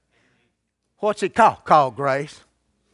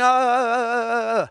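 mock shaking stammer. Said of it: "I ain't saying".

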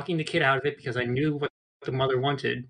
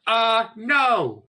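quoting the scout; 7 semitones higher, 5 dB louder than usual. Retold or imitated. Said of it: "to quote the scout".

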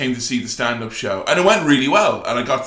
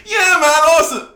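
much higher, loud mock-sarcastic cheer; sarcastic mate's voice; friend's reaction; 6 dB louder, faster than usual. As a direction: imitate a friend's dry fake praise. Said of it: "one of my very good friends at the time going".

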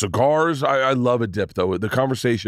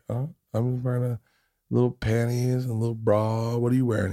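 sultry phone sex operator; 4 dB quieter than usual. Retold or imitated.

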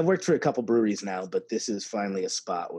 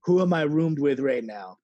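loud disbelief; 5 semitones higher, 7 dB louder than usual. Retold or imitated. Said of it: "I was like".

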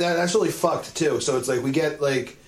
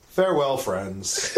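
overacted anime dub; slower than usual. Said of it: "And he goes".

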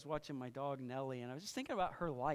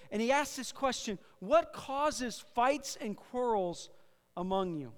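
emphatic, measured sermon delivery; projected pulpit teaching voice; preaching; 3 semitones higher, 7 dB louder, slower than usual. Real, not acted. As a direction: preach it with weight on the key words. Preaches to congregation.

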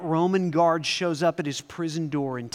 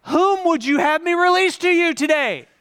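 much louder and higher proclamation; louder Pilate; 10 semitones higher, 7 dB louder than usual. Acted. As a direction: turn it up and bellow to the mob. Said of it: "I'm gonna turn the volume up just a little".

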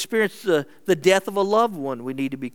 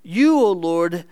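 raised, earnest scripture prayer; higher-pitched prayer reading; 6 semitones higher, 4 dB louder than usual. Acted. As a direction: read it out as a fervent plea. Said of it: "David prays".

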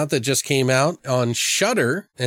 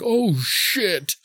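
mock alarmed gremlin; 7 semitones higher than usual. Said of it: "the fucking gremlin's like".

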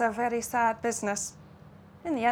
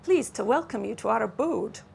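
put-on Russian-Scots accent. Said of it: "accent that hovered somewhere between Russian and Lowland Scots".

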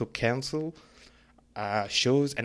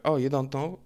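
sarcastic; 3 semitones higher, 3 dB louder than usual. Retold or imitated. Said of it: "I'm just being sarcastic".

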